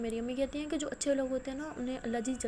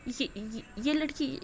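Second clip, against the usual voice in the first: crying; 3 semitones higher, slower than usual. Acted. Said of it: "رونے لگ جاتی ہے".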